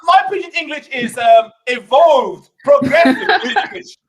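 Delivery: laughing through a defense of his pidgin; half-laughing, slow on evolved. Real, not acted. The speaker defending his pidgin to the panel, laughing. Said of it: "pidgin English with that accent".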